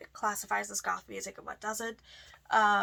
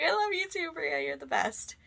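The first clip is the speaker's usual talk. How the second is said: affectionate reply; 7 semitones higher than usual. Retold or imitated. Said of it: "I'm like".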